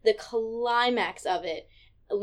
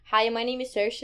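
put-on Irish accent, introducing herself; Saoirse Ronan. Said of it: "she introduces herself in an interview".

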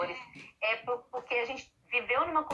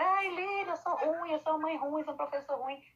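higher whiny lament, fading at the end; mock self-pity; 5 semitones higher than usual. Guilty parent complains to therapist in a higher whine. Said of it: "tem gente que fica".

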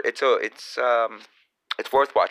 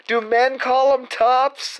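incredulous mock voice; 13 semitones higher, 3 dB louder, slower than usual. Incredulous put-on question.

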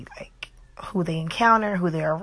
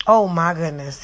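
"Oh my goodness" said louder, as an exaggerated polite gasp; mock-prim exclamation; 4 dB louder than usual. Shown as a demonstration. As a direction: do the sanitized exclamation a bit big. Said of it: "He told me to say".

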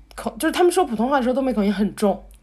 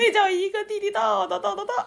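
put-on Beijing accent; 7 semitones higher than usual. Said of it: "特别喜欢学北京话".

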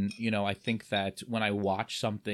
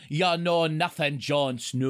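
slow, hammed-up Ygritte catchphrase; bad Ygritte impression; 5 semitones higher, 5 dB louder, slower than usual. Teasing a cosplayer with wife's hated line, bad impression. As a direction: drag out a badly faked Ygritte accent. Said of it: "I walk around my house saying".

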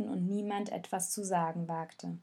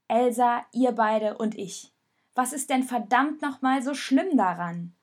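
raised, forceful appeal to the group; rally them, pleading and firm; urgent appeal; 6 dB louder than usual. Acted. Rosa pleads with her friends to stop fighting, loud.

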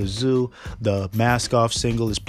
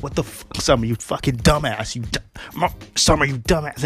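mock angry yell; 4 semitones higher than usual. Rick shot in the eye.

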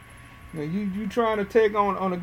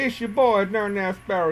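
normal talking voice

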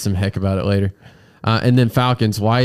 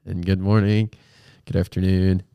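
hoarse, congested frog voice from a sinus infection; croaky with a blocked nose. Real, not acted. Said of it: "still sounding like a frog".

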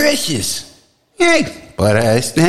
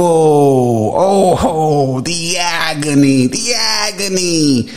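hammed-up agony; much slower than usual. Mock pain from wheelchair attack.

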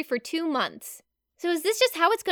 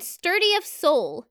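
slow savoring; slower than usual. Shown as a demonstration. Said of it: "I actually really like".

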